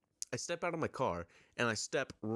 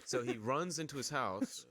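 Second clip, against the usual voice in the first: normal talking voice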